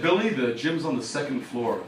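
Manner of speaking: a hint of put-on low authority; mock authority figure. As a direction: state it like the adult in charge. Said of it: "so I sound like a real authority figure".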